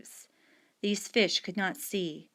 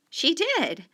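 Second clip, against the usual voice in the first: insistent whisper; 10 semitones higher, 4 dB louder than usual. Acted. Child insisting to mother.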